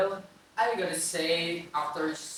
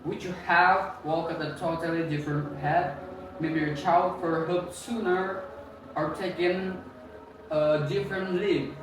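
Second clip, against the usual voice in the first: loud; 4 dB louder than usual. Real, not acted. Loud closing question to listeners.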